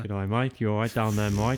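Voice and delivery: lightly mocked Australian accent. Co-host teasing the storyteller's rescuer, mock Australian accent. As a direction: tease with a put-on Aussie twang. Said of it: "Is he Australian?".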